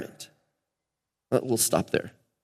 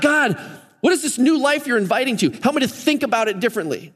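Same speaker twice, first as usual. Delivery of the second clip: imagined prayer; 6 semitones higher than usual. Retold or imitated.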